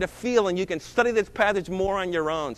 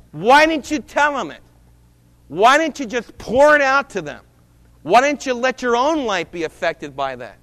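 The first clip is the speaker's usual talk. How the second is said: louder, higher voice of God questioning; a hint of God calling him to account; preacher voicing God's rebuke, louder and higher; voicing the Lord; 3 semitones higher, 4 dB louder than usual. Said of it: "the Lord says".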